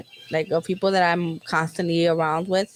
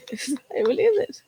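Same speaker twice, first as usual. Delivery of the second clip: teary laughing; 5 semitones higher than usual. Real, not acted.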